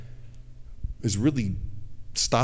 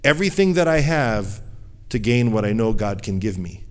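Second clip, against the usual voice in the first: resolute vow. Retold or imitated. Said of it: "her mindset was".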